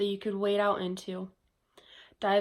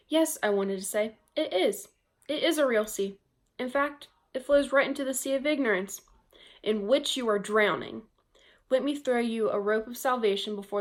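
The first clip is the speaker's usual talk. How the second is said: emphatic, theatrical sarcasm with raised key words; mock-grand retort. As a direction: overplay a grandiose imagined answer. Imagined sarcastic reply to student.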